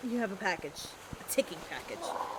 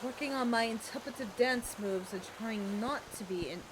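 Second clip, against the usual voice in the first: put-on shaky southern accent; 4 dB quieter than usual. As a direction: try a southern belle accent and lose it. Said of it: "Your accent keeps changing".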